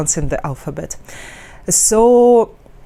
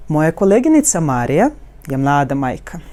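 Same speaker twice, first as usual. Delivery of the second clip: "Moja koleginica Marija je mlada majka" flowing as one melodic wave; connected wave; 3 semitones lower, faster than usual. Shown as a demonstration. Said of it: "how we connected and how we have this wave".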